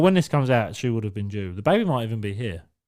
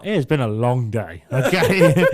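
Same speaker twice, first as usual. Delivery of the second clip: whiny excuse; 4 dB louder, slower than usual. Retold or imitated. Retold whinge to labouring partner.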